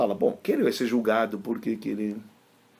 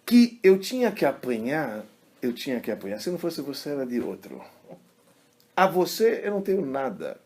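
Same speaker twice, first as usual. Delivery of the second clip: high, impassioned account of a weeping rabbi; retold tearful confession; 5 semitones higher, 3 dB louder than usual. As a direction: plead earnestly, imitating someone in tears. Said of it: "Eu tô chorando porque eu tô". (confissão chorosa imitada, com voz aguda)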